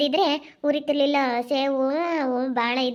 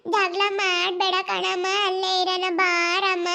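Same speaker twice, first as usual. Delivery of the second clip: put-on pleading child; 6 semitones higher than usual. Child asking mother to live with father, high pleading.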